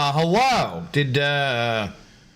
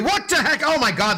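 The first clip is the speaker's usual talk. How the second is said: surprised; 11 semitones higher than usual. Real, not acted. Stream suddenly breaks.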